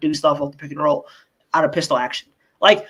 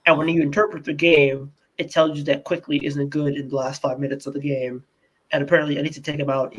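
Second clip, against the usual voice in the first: mock Thibs; 4 semitones lower than usual. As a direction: explain it like a self-justifying coach, pitch dropped. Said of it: "And he'll be like".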